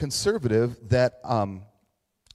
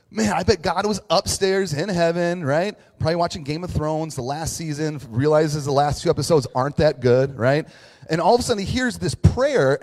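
animated, louder mocking storytelling; 3 semitones higher, 6 dB louder than usual. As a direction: poke fun with exaggerated enthusiasm. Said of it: "I totally was mocking you".

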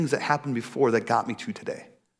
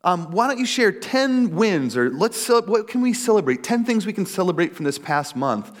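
lightly voiced coach, higher pitched; coach's chipper prompt; 6 semitones higher than usual. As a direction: imitate an upbeat coach opening a session, higher. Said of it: "she would say".

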